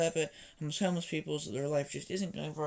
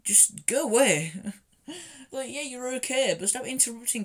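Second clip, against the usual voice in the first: loud exasperated; 8 semitones higher, 6 dB louder than usual. Retold or imitated. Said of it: "I'm like".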